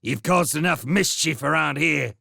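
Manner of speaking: furious sentry ordering him off; angry guard. Acted. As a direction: drive the otter away. Guard angrily chasing otter off.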